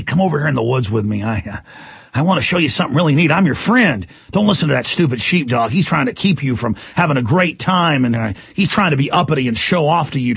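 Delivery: lightly voiced wolf, low and confiding; sly coaxing wolf. Wolf luring sheep from the sheepdog, sly. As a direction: coax the listener away, pitch dipping low.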